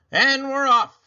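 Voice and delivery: high, loud and thrilled; excited. A narrator's reading. Mister Watson cheering to Mercy, excited. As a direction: belt out the start of the trip.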